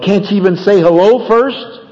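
defensive. Acted. Wife to husband who skipped hello, defensive. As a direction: answer back defensively, pitch lifting to the end. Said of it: "she gets defensive and she responds".

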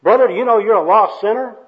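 loud, high-pitched accosting of a sinner; booming soul-winner opening; zealous street evangelist. Acted. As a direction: pounce on them like a street preacher. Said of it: "the first personal worker comes up".

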